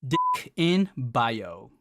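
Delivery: slow, low sultry purr; seductive. Acted. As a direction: draw it out seductively.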